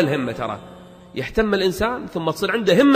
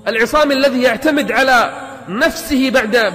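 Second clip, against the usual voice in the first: higher-pitched, insistent preaching; rousing exhortation; 6 semitones higher, 3 dB louder than usual. Acted. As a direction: drive each point home to the listeners. Rousing exhortation against excuses. (وعظ حماسي بنبرة مرتفعة ملحّة)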